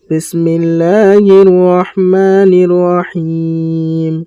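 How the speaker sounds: slow melodic tajweed chant; measured Quranic recitation. Shown as a demonstration. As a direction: recite slowly, drawing out each vowel.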